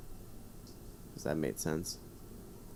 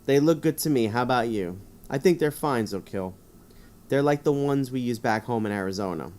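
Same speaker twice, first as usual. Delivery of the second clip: 1 playing the driver; 2 semitones higher, 5 dB louder than usual. Answers Zokil as player character.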